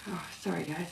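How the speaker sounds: mid-yawn apology. Real, not acted. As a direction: talk through a yawn. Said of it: "I'm yawning up a storm".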